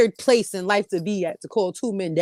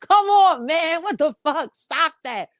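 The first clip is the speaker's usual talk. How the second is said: annoyed complaint; 6 semitones higher, slower than usual. Retold or imitated. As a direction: push him off, fed up. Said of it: "and I'll be like".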